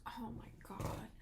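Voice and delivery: hushed imitation of his reaction; mock exasperated whisper under the breath; boyfriend's reaction. Woman imitates boyfriend reacting to her question, hushed. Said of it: "This is how he reacts".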